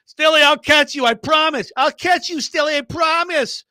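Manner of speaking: high, pleading mock voice; mock trust fall plea. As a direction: coo it like a teammate begging trust. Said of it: "You know, like".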